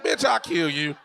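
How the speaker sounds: loud playful threat; mock threat shout. Threatening his friend over the joke, mock shout. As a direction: bark it like you mean it, half joking.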